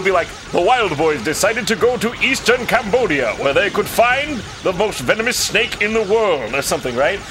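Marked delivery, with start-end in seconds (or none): 0.5-6.5 Steve-O impression. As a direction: announce it like a stunt-show host. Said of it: "Sibo will just literally be like".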